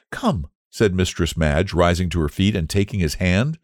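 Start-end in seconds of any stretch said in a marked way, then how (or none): 0.1-0.5 slightly high, soft squire's daughter; gentle invitation. A narrator's reading. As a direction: coax the child along gently.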